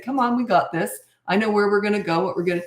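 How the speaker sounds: rally the troops calmly; lightly voiced confident commander; confident leader. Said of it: "a lot of it is just your attitude".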